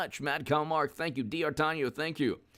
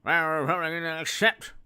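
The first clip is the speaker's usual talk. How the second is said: mocking an old president. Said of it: "his dumb speech the other day".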